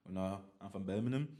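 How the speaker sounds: a light stab at a Brummie accent; Birmingham accent. Shown as a demonstration. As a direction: try the only Birmingham accent you know. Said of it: "That's my only accent I know how to do".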